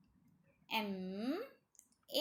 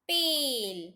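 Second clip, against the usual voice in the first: loud drawn-out blend; blended word; 4 semitones higher, 8 dB louder, much slower than usual. Shown as a demonstration. Teacher to children, loud blended word. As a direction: sound out the whole word loudly. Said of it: "प ए ल".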